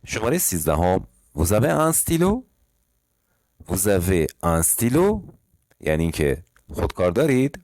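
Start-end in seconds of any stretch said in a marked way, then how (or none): 1.4-2.4 example read. Shown as a demonstration. 3.7-5.2 slow repeat. Shown as a demonstration.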